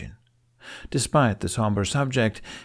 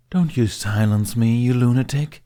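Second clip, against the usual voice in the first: louder, offended dragon scolding; indignant; 3 semitones higher, 6 dB louder than usual. Acted. Dragon scolding Hiccup for shushing him, louder indignant retort. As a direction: bristle at being silenced.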